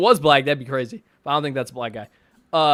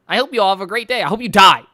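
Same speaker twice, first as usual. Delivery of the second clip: mock rant sign-off; 3 semitones higher, 6 dB louder, faster than usual. Mock sign-off turning into a curse.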